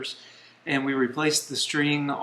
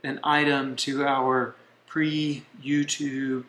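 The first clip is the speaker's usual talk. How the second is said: talking while chewing gum; words around a wad of gum; slower than usual. Real, not acted. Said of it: "y'all have to watch us chew on our gum".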